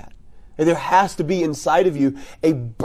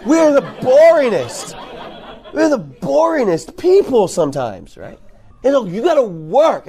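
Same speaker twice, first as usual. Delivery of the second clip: laughing; 6 semitones higher than usual. Real, not acted. Joking to youth leaders about church, laughing real. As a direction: chuckle it out, amused at ourselves.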